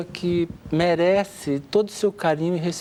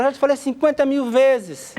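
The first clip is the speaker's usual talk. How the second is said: nagging wife; 9 semitones higher than usual. Retold or imitated.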